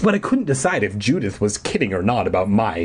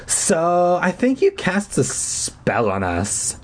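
put-on weak little girl voice; 7 semitones higher, slower than usual. Judith accuses.

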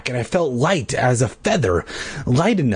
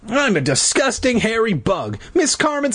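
squeaky bee voice; 10 semitones higher than usual. Acted. Bee crying out.

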